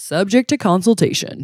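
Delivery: put-on radio ad announcer voice. Repeating an ad's closing line in a put-on announcer voice. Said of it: "I got my announcer voice on".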